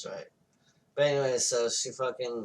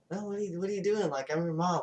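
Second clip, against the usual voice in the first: high-pitched retold pleading; mock pleading mother; 6 semitones higher, faster than usual. Mother to her frightened kids, high mock pleading. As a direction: plead as an imitated bewildered mom.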